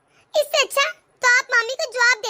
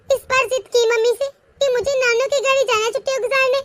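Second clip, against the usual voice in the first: upset shout. Acted. Daughter upset, confronting her aunt.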